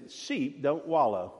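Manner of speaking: slow, firm mother sheep; stern mother. Retold or imitated. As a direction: lay the rule down slowly. Mother sheep corrects lamb.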